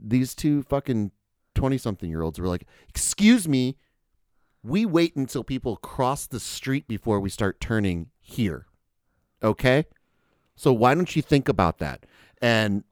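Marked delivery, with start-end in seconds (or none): 2.9-12.1 retold scolding. Acting out indignant pedestrians' scolding.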